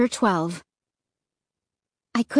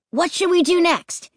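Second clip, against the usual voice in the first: higher, eager demand; grinning demand; 8 semitones higher than usual. Acted. Luke eagerly asking what ride is next. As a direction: push the question with a grin. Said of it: "he demanded, grinning".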